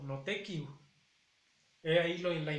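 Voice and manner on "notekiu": "notekiu" con la u final audible; mi pronunciación. Shown as a demonstration. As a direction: di "notekiu" terminando en u. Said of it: "y yo digo". ("notekiu" con la u final clara)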